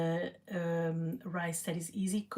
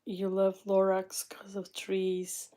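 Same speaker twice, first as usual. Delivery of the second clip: whisper. Real, not acted. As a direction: lean in and whisper it. Whispered aside to someone.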